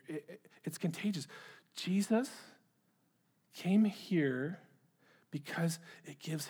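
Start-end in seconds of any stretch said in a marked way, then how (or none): 0.1-1.3 quietly, as it dawns on you; soft realization. Acted. Preacher realizing aloud to the congregation, softly.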